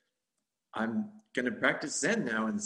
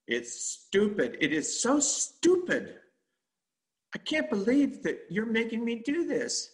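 higher, slow, drawn-out disgust; scornful inner voice; 11 semitones higher, 4 dB louder than usual. Retold or imitated. Inner voice mocking the meditator, slow higher contempt. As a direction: sneer it out like a bored critic. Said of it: "the voice says".

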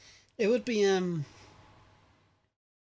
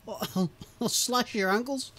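laughing mock threat; 6 semitones higher, 4 dB louder, slower than usual. Chicken threatens in a silly scene.

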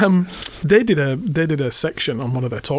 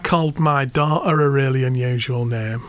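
a hint of broad Hull accent; lightly voiced chavvy Hull caller; 3 semitones lower than usual. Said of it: "I'll have to do my really chavvy Hull accent".

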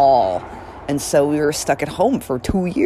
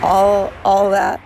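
laughing; 6 semitones higher, 3 dB louder, slower than usual. Real, not acted. Laughing after hobbit quote.

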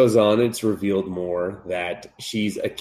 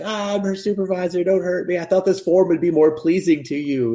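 much higher, timid pleading; high whiny cat voice; 9 semitones higher than usual. Retold or imitated. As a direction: squeak it like a nervous little creature. Cat supervisor voiced in recap.

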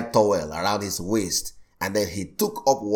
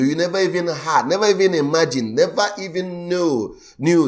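building emphasis; 6 semitones higher, 3 dB louder than usual. Acted. Building preached list.

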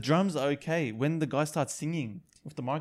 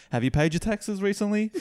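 serious commentator; 7 semitones higher, 3 dB louder than usual. Pretend. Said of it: "starts getting a bit serious".

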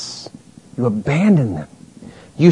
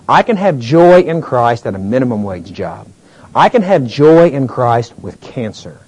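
slow earnest declaration; slower than usual. Acted. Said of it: "a desire for Him that can say".

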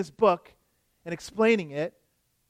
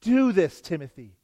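slow, weighty apostolic command; solemn emphatic charge; slower than usual. Retold or imitated. Paul charging young Timothy, slow and solemn. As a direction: lay the charge on him, slowly and gravely. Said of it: "a solemn charge, an emphatic".

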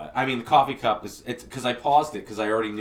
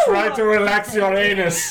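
mock soothing; 8 semitones higher, 7 dB louder, slower than usual. Mock soothing while laughing.

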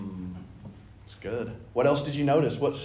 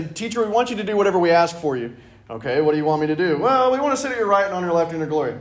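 eager request; 3 semitones higher, 6 dB louder than usual. Acted. Acted disciples' eager request.

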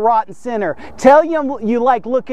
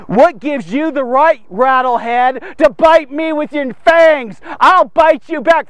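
slow, a bit louder challenge to the snake; mock angry threat; 4 dB louder, slower than usual. Preacher acting out his old rage at a snake, slow mock threat. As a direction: taunt it slowly like a picking a fight.

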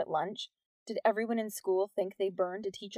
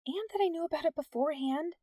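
strangled whisper; 8 semitones higher than usual. Acted. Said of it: "in a strangled whisper".

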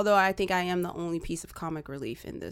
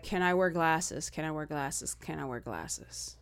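repeated plea, fading softer each time; pleading repeat; 4 dB quieter than usual. Retold or imitated. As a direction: ask it three times, trailing off. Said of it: "You asked three times".

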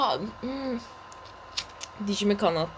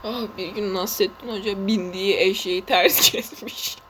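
giggling mid-sentence; words broken by laughter; laughing through words; 4 semitones lower than usual. Real, not acted. Laughing while telling story.

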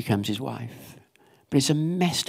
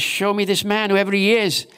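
acted outrage, pitched high; livid king; 7 semitones higher, 3 dB louder than usual. Preacher voices David hearing Nathan's story, livid. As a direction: demand it in high, rising indignation. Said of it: "he's absolutely livid".

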